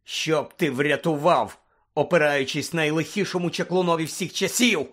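incredulous, simmering anger; furious retort. Acted. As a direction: throw the question back angrily. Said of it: "розлючено перепитав Блек".

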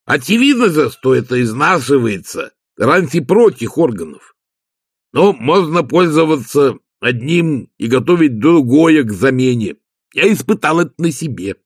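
proud tinkerer explaining his method; Igor, eager servant. Acted.

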